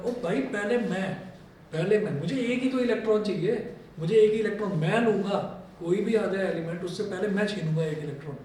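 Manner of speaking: mock-impatient grab for first turn; eager, impatient. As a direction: insist playfully that you go first. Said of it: "बेताब". (बेताबी का हल्का अभिनय)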